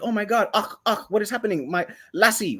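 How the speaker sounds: mock-alarmed Scottish brogue; terrible Scottish accent. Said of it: "in her terrible Scottish accent".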